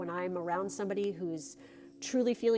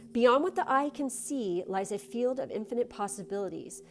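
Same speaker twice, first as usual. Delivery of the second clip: card reading; 2 semitones higher than usual. Acted. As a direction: read it like a gentle blessing. Reads the card text.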